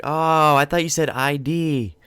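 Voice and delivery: high, emphatic mock surprise; acted realization. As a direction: act out the penny dropping, loudly. Acting out realizing the misunderstanding.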